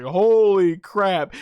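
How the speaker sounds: amazed exclamation. Retold or imitated.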